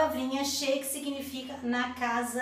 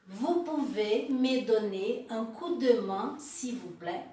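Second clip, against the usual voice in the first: slowed, careful French question; slow model question. Shown as a demonstration. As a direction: model it slowly for learners. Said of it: "Encore une fois". (pergunta modelo, devagar)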